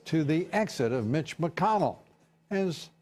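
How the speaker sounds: emphatic opening, deliberate anchor cadence; news read. Acted. Anchor reading poll results to viewers, news read.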